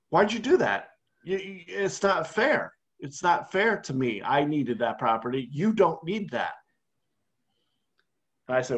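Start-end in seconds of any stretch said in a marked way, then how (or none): 0.1-6.5 mock whining. Co-host mocked as a sore loser, hammed-up whine. Co-host voiced losing Monopoly property.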